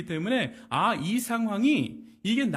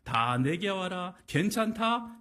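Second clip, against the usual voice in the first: relaxed easygoing invitation; 2 semitones lower, slower than usual. Retold or imitated. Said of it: "여유로운 상황에서".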